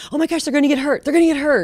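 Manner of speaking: high, loud panicked cry; panicked mom. Retold or imitated. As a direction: squeal it like a mother sure the boys will get hurt. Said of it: "was afraid if you were out wrestling".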